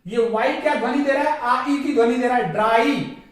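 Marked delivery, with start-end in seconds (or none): 2.5-3.2 ड्राई with the R sounded after D; R pronounced. Shown as a demonstration. Teacher demonstrates R before a vowel, sounded in ड्राई. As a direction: say ड्राई with a clear R. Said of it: "यहां पे भी आर का उच्चारण होगा".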